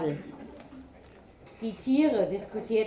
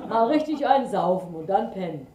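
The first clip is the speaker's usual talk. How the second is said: loud ox; 7 dB louder, faster than usual. A narrator's reading. Ox raves about drinking.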